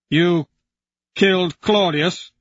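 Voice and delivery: high, loud, voice cracking with strain; breaking voice. Acted. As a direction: disbelief breaking into grief. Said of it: "voice breaks under the strain".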